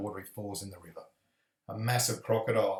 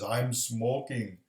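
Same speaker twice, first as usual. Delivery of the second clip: slow, lightly voiced stoner chimp; a hint of a slow, mellow chimp; chimpanzee character; slower than usual. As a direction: draw it out slowly like a laid-back chimp. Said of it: "And the chimpanzee says".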